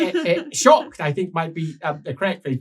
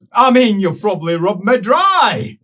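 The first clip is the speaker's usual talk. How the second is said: slow, loud, laughing through the insult; barely holding back laughter; laughing reply; 8 dB louder than usual. Retold or imitated. Champion mocking the wife's offer, laughing.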